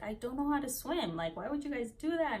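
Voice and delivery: lightly whiny re-enactment; retold crying. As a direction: imitate a tearful complaint without real tears. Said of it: "And I was, like, crying".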